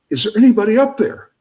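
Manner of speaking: high, loud call up the well; yelling up. Acted. Man in the well calling up, yelling. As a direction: shout up for help from the well. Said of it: "he yells up".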